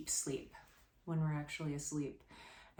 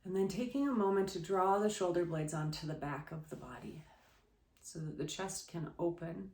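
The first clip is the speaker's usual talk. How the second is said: softer, unhurried yoga guiding voice with long pauses; guided relaxation; 3 dB quieter than usual. Real, not acted. Yoga teacher settling listeners on the floor, guided relaxation. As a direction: settle them gently into the pose, quietly.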